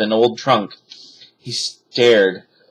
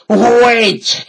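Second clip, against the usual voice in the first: cry; 12 semitones higher, 6 dB louder than usual. A narrator's reading. Captain chases the boat.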